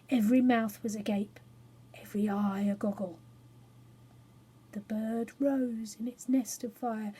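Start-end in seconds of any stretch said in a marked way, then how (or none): 1.9-3.2 quick amazed whisper. A narrator's reading. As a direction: breathe out the wonder. Awed faces.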